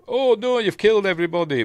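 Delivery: high, fast mock shock of a shapeshifter; female changeling voice. Odo faking the female changeling's voice, high mock alarm. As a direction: squeak it out like Odo posing as the changeling. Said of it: "with a voice and everything".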